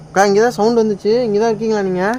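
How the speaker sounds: loud call into the dark; calling out to the spirit, loud. Real, not acted. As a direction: call out to the hidden sister. Calling out to ghost.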